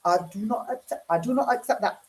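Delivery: lightly put-on politician impression; Bridget Phillipson. Shown as a demonstration. Doing a requested politician impression for viewers, mimicking voice. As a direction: mimic a politician refusing to accept something. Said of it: "love the Bridget Phillipson impression you do".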